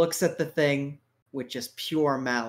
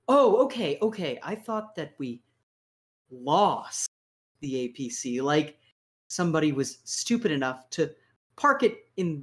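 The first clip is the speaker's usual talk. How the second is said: lightly voiced commander, sarcastic and incredulous; a boss mocking a lame excuse, barely changing voice; 4 semitones higher than usual. DM voices Lucan ranting at soldier.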